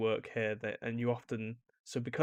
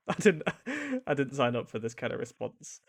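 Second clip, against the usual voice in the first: laughing; 2 semitones higher, 3 dB louder than usual. Retold or imitated. Mocked reaction to an oversharing reply.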